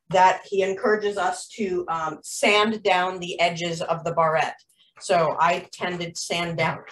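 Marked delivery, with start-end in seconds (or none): 5.0-6.8 talking through hiccups; words interrupted by hiccups. Real, not acted. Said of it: "excuse me, I got the hiccups".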